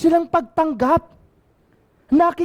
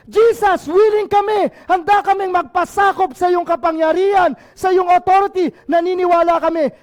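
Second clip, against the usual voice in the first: fervent plea; 2 semitones higher than usual. Acted. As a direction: pledge surrender with fervor. Preacher voices lepers' surrender.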